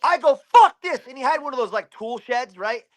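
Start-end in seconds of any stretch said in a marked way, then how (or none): 0.5-1.0 loud, high burst of exasperation; acted-out shout of frustration; fed-up outburst. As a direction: explode as you re-enact losing patience. Retelling his fed-up outburst.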